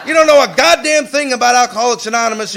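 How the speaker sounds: retold rebuke shout. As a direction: bark it like a stern sponsor putting him in place. Retells sponsor rebuking him.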